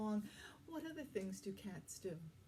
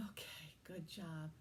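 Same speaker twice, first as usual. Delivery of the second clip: whispering; 5 semitones lower, 6 dB quieter than usual. Acted. After calming breath.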